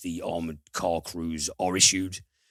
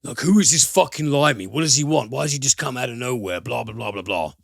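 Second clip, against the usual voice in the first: hostile coworkers; 5 semitones higher, faster than usual. Retold or imitated. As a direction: sneer at the newcomer, hammed up. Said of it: "who are like".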